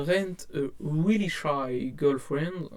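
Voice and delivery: slow English title in a thick French accent; broken English accent. Real, not acted. Reading a manga title to viewers, clumsy French-accented English. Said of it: "Mon accent anglais est toujours éclaté".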